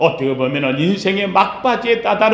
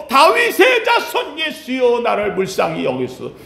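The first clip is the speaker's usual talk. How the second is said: louder scream-like cry; 3 semitones higher than usual. Acted. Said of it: "더 크게 비명 소리를 지르며".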